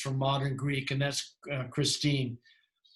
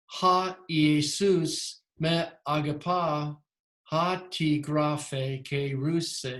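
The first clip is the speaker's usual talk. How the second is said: measured reading of "ha Jesus me agapa, ha ti graphe ke ruse" with musical accents; tentative demo of musical Greek intonation; attempted ancient pitch accent; much slower than usual. Shown as a demonstration. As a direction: recite the Greek slowly, word by word, lilting on the accents. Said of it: "I'm not any good at it".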